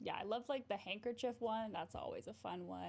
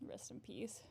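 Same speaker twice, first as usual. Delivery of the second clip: whisper; 7 dB quieter than usual. Real, not acted. Aside about Houdini.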